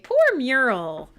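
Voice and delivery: slow, drawn-out mock sympathy; mock pity. Streamer pitying Mural to chat, slow mock sympathy. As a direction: coo it with mock pity, slowly.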